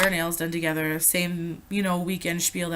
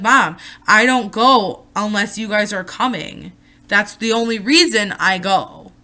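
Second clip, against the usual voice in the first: raised voice; 6 dB louder than usual. Retold or imitated. Arguing with mom.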